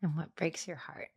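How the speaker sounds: hushed, whispered question. Real, not acted. Host asking her guest gently, whispered.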